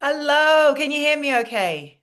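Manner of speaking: put-on British-accented voice check; British alter ego. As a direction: greet the room in a British accent. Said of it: "bring my British alter ego".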